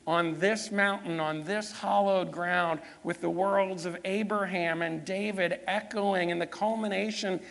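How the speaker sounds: driving preacher's cadence, stressed key words; building sermon. Real, not acted. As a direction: preach it in urgent, rolling phrases.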